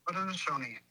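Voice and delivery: Haudenosaunee, carefully in native pronunciation. Shown as a demonstration. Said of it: "Hey, say that again".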